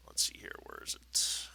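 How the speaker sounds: muttered search under breath; whispering. Real, not acted. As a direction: whisper to yourself while searching. GM searching notes aside.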